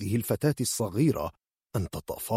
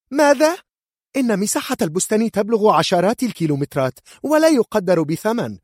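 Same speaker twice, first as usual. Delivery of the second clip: very high, loud outraged cry; mother shrieks at the demand for the orchard; furious shout; 8 dB louder than usual. Acted. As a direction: explode at the price. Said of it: "صاحت كورديليا في غضب".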